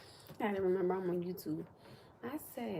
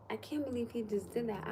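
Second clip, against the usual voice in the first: disbelieving, without pushing it; mild retold disbelief; 3 semitones higher than usual. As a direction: quote it in restrained disbelief. Retold disbelief, first milder take.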